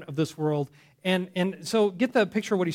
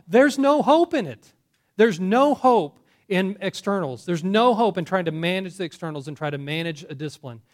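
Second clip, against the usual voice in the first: preaching force; 3 dB louder than usual. Real, not acted. Preaching climax.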